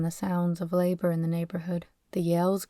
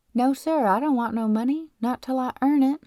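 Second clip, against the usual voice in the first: higher, louder, insistent refusal; firm refusal; 5 semitones higher, 4 dB louder than usual. Acted. Boy turning down money from his new friend, firm refusal. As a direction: push the money away with emphatic words.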